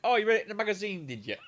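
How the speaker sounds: fast, mocking retold sarcasm; sarcastic mockery. Mocking the ex-girlfriend's magazine claim, sarcastic. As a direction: rattle it off, dripping with scorn.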